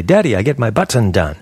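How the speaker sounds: BUTTON as "but-ton", T and second vowel fully sounded; over-pronounce the T in button; wrong full-T button. Shown as a demonstration. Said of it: "You don't say button".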